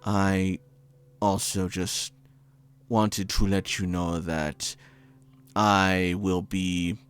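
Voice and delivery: put-on older man voice. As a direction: leave a fond, hesitant message. GM plays Tanaka's voicemail.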